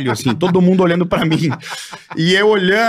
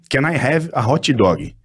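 slow, careful learner English, a little lower; coaching an English phrase; 5 semitones lower, much slower than usual. Retold or imitated. Friend teaching him how to order, slow and deliberate. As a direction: spell out the order word by word at half speed. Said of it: "Chega lá e fala assim".

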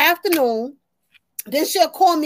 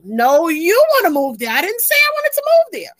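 whiny son. Retold or imitated. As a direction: voice the grown son whining. Son voiced, protesting.

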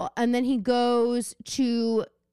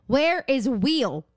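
slow mock-Southern question; imitated Southern accent; much slower than usual. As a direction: stretch out Wheel in a Southern accent. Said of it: "She is from the South".

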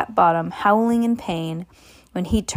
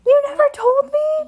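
mock shock; 4 dB louder than usual. Mother voices child's shocked reaction.

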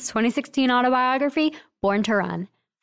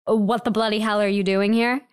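a light, hammed-up British accent; mock British accent. Host teasing a singer's visit in a mild mock British accent. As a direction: toss it off in a jokey British accent. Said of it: "in a terrible British accent".

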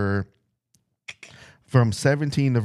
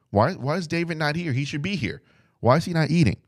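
higher, pressing questions from the king; a hint of an annoyed king; 6 semitones higher than usual. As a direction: press him like a suspicious king. Voicing Saul's demanding questions.

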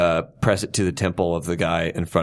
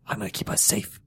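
whispered menace; 8 dB quieter than usual. Acted. Captor whispers reassurance.

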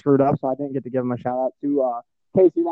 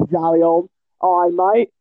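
fake British accent; 3 semitones higher, 3 dB louder than usual. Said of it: "I'm just throwing out all my fake accent".

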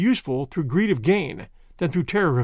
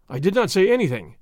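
injured tone. Acted. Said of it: "in an injured tone".

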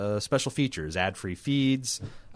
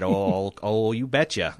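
lightly put-on Minnesota accent; a quick, weak Minnesota "you betcha"; slower than usual. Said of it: "that's terrible Minnesota accent".

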